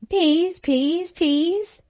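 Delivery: high-pitched parrot squawking one word. A narrator's reading. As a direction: mimic a parrot, each word rising. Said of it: "said the parrot".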